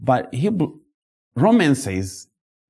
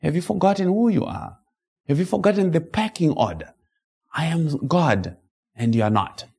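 voicing God; 3 semitones higher than usual. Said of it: "God speaks like that and says".

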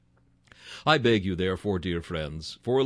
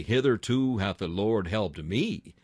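me given the weight at the end; a slightly stressed me. Shown as a demonstration. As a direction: make it personal by leaning on me. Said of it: "put it in the singular and say".

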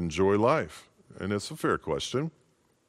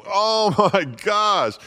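high, slow "oh my gosh" breaking into a laugh; hammed-up wife, cracking up; 8 semitones higher, 6 dB louder, slower than usual. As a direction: play the horrified wife while laughing. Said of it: "She goes".

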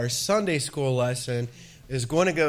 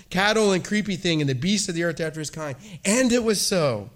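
ringing, proclaimed scripture reading; booming biblical narration; 3 semitones higher than usual. Acted. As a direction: thunder out each "God said". Reads Genesis refrain to congregation.

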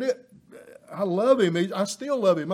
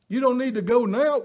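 fast, raised insistence; insistent warning; 2 semitones higher, faster than usual. Retold or imitated. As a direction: push the warning harder. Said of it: "People would say".

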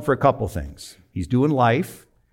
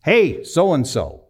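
mild calling-out, higher and drawn out; retold yell; 6 semitones higher, 4 dB louder, much slower than usual. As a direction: slowly holler across the yard, half-hearted. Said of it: "And he yells to this guy".

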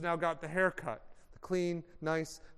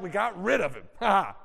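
gloating laugh; 4 dB louder, faster than usual. Retold or imitated. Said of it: "they were like".

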